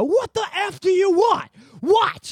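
loud, high angry yell. Retold or imitated. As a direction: bark it at a stranger in the dark. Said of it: "I yell".

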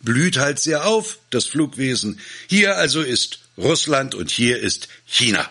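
high-pitched, affronted retort; indignant. A narrator's reading. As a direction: answer as if insulted by the question. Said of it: "erwiderte Kosanossow empört".

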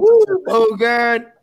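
slow, drawn-out Louisiana drawl; Louisiana accent. Retold or imitated. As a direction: stretch it out like a Louisiana buddy. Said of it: "It was a horrible impression of him".

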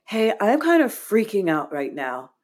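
a hint of a kid freaking out; nine-year-old self. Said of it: "my nine-year-old self is like".

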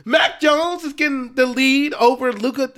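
high exasperated rant; frustrated rant. Real, not acted. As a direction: vent with real frustration. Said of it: "I'm losing my voice right now".

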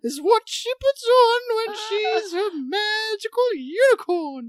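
swooping, theatrical mock announcer; film-star impression. Host introducing Jennifer in a put-on swooping star voice. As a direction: introduce with hammed-up lilting swoops. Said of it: "use one of these voices".

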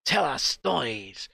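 quick mock French-accented Hello; light French accent. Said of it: "he fucking sounds French".

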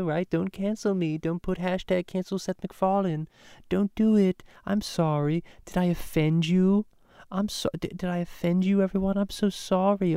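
lightly hammed-up grovelling celebrity; mocking a star begging not to be cancelled; mock Seth MacFarlane. Mocking Seth pleading with fans.

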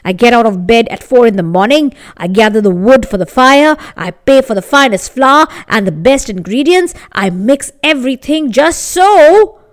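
indignant baker. Acted. Baker's angry demand.

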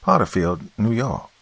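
words pushed out through clenched teeth; through his teeth. Retold or imitated. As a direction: speak through gritted teeth. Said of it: "he said through his teeth".

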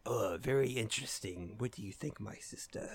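hammed-up scheming villain voice; sneering panto villain. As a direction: play a smug cartoon villain, dropping to a whisper. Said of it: "Evil people doing evil things".

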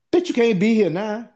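frantic high-pitched yelling to get her out before the wife comes; angry yell. Retold or imitated. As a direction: chew her out, voice cracking up high.

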